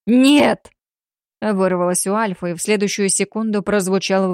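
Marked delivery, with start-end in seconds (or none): 0.0-0.7 loud sudden cry of no; outburst. Acted. Alpha crying out as his son is shot, loud. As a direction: burst out in anguish.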